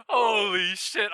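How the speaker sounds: high loud laugh into a slow yell; real joyful shout; screaming. Real, not acted. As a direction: shriek with delight then drag it out. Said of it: "I'm sorry for screaming".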